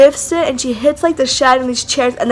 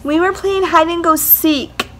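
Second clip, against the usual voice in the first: slow, higher, lightly voiced tipsy girl; drunk friend; 4 semitones higher, slower than usual. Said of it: "her drunk self".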